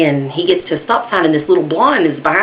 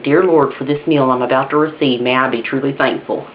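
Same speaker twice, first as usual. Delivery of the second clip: measured, settling into a lower pitch; mock table grace; 3 semitones lower than usual. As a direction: say grace like a pious bear. Bear says grace before eating.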